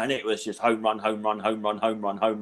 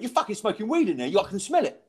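imitated accusing bloke, pitched up; quite aggro; 8 semitones higher than usual. Bloke accusing comic of smoking weed, aggro. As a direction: confront him as a mock-aggressive bloke. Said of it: "Like, quite aggro".

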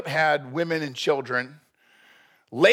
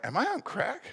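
bewildered Jacob; 8 semitones higher, 7 dB quieter than usual. Retold or imitated. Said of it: "Jacob looked up and was like".

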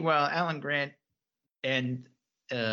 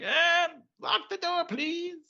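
high, meek pleading voice; squeaky, timid request; Alan Grant; 12 semitones higher, slower than usual. Retold or imitated. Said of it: "Alan Grant's like".

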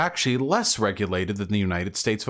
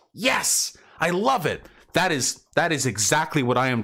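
sarcastic cheer; 6 semitones higher than usual. Acted. Mock cheering at socialist text.

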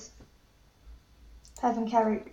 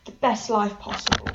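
gushing sign-off; 2 semitones higher than usual. Pretend. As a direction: lay on the goodbye for the listeners. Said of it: "what else am I meant to say".

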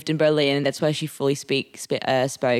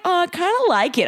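high-pitched mock liking; mimicked friend; 13 semitones higher than usual. Imitating a friend who claims to like a gross drink, high-pitched. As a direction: put on a higher voice for the friend.

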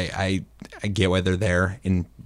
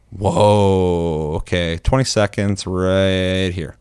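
acted astonishment; much slower than usual. Acts out reacting to a confession.

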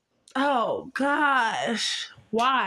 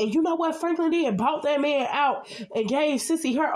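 higher, fast eager question; excited; 5 semitones higher than usual. Real, not acted. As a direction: build it up with excitement.

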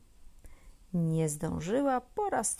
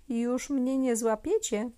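gleeful; 5 semitones higher, 5 dB louder than usual. A narrator's reading. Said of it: "cieszyła się Zosia".

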